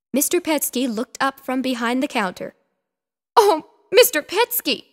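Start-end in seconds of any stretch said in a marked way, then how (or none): 3.4-4.9 higher, louder sniffly plea; tearful cry. A narrator's reading. Missus Picasso arriving at the pet store, tearful. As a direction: call him through tears. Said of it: "Missus Picasso cried with a sniffle".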